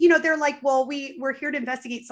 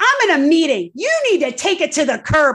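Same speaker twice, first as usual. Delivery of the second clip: very loud boss-man yelling; 3 semitones higher, 9 dB louder than usual. Retelling how the husband yelled at two visitors: imitating husband yelling. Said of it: "boss man, like, yelling at the three of us".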